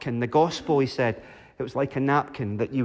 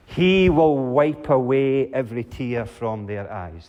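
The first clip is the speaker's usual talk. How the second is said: solemn reading; 2 semitones lower than usual. Shown as a demonstration. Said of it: "reads the promise aloud".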